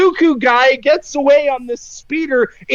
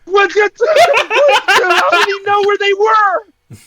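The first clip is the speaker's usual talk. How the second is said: higher, exasperated disbelief; ranting viewer's astonished questions; incredulous outburst; 4 semitones higher than usual. Retold or imitated. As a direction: demand an explanation, baffled and worked up. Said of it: "You're like".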